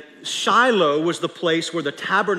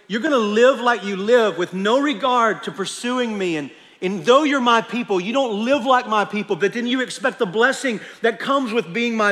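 a bit higher and louder, pleading disbelief; lightly voiced exasperated God; 5 semitones higher, 5 dB louder than usual. Preacher voicing God to unfaithful people, mildly exasperated. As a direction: press God's complaint home. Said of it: "the Lord is saying".

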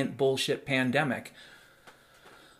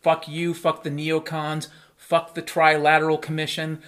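snarling punk. Real, not acted. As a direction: spit out each target with rising fury. Escalating profane tirade.

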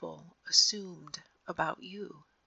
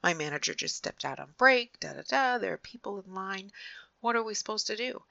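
a hint of a panicking cashier, louder and faster at the end; flustered cashier; 4 dB louder, faster than usual. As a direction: imitate a cashier losing her cool. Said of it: "was like".

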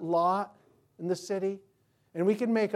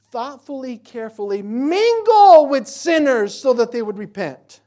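emphatic preaching; 5 semitones higher, 12 dB louder than usual. Real, not acted.

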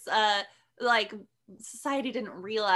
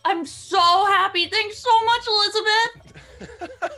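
put-on anime girl voice; 10 semitones higher, 6 dB louder, slower than usual. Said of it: "Anne Takamaki".

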